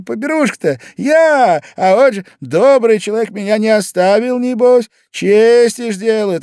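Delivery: высоко, громко, кривляясь; юродствуя, заискивает перед хозяйкой; пьяный шут Зимовейкин. Acted. (шутовской заискивающий голос)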